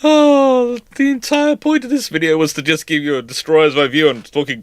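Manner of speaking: loud, rising exasperation; exasperated outburst. Real, not acted. Host exclaiming over how the video turned out, loud. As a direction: throw up your hands.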